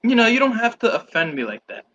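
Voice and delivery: playfully wounded protest; hammed-up hurt feelings; mock offended. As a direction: act hurt by the teasing. Mock offence at accent jibe.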